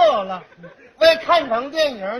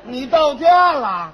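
surprised shout; 6 dB louder, slower than usual. Acted. Partner reacts to the story.

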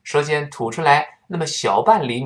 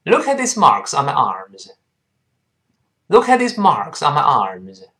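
quicker, linked-up model sentence; faster reading. Shown as a demonstration. Teacher has learners pick up speed, faster reading. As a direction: read it through more quickly, words linked. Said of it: "我们再读快点".

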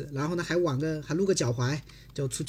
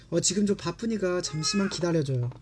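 very fast read; much faster than usual. Shown as a demonstration. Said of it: "我在读慢的时候".

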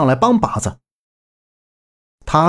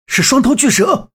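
terrified cry; 8 semitones higher than usual. A narrator's reading. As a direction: cry out in sudden horror. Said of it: "大呼一声".

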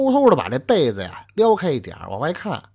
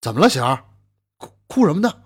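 a bit flustered; 3 dB louder, faster than usual. Acted. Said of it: "他也有点慌了".

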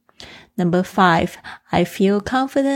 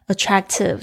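whispered word. Shown as a demonstration. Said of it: "repeats the word for learners".

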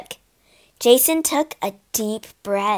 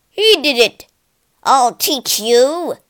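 angry shout; 3 semitones higher, 7 dB louder than usual. Acted. Soldier yelling at another in the battle, angry shout. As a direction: shout the threat, ready to fight. Soldiers fighting each other.

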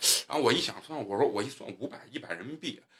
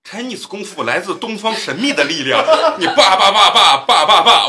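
hammed-up stage announcer, higher and louder, laughing; mock showman announcer; 7 semitones higher, 9 dB louder than usual. Joking with friends, mock announcer for an Eastern kung fu act, hammed up and laughing. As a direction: present Chinese kung fu like a fairground barker, laughing.

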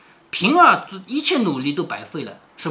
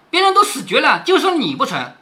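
biting, higher angry retort; 5 semitones higher, 3 dB louder than usual. Acted. Qingwen snapping at Zhuaner, angry. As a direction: snap at the maid in anger. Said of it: "晴雯说".

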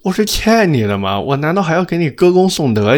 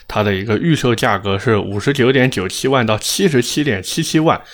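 tongue tripping over long price numbers; stumbling, thick tongue on the figures; thick-tongued. Real, not acted. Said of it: "对于我这种大舌头的人来说". (大舌头，念数字费劲)

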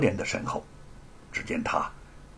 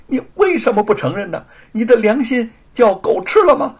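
high, loud, indignant shouting; outraged accusation; 7 semitones higher, 6 dB louder than usual. Acted. Sister defending her brother's manuscript, outraged accusation. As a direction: cut in and berate the liar.

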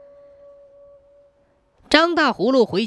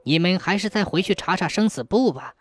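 lightly voiced earth god; 3 semitones lower than usual. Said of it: "土地爷连声说".

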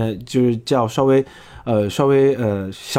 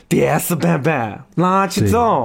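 higher, mock-irritated Sichuanese; fierce Chengdu dialect; 4 semitones higher, slower than usual. Shown as a demonstration. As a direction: say it fiercer, like a cross Chengdu local. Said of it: "成都人要说凶一点". (凶一点的成都话)

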